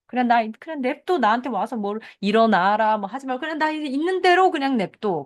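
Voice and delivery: high, whiny please-go-away plea; fed up and wanting to be left alone; exasperated leave me be. Acted. (귀찮게 하지 말라고 높게 짜증 섞어 말하듯)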